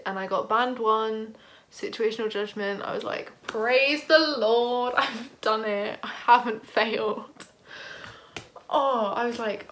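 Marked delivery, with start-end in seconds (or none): 3.5-7.5 slow, drawn-out, louder praise of relief; relieved celebration. Retold or imitated. Student seeing her results on call with mum, slow relieved praise. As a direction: savour the relief.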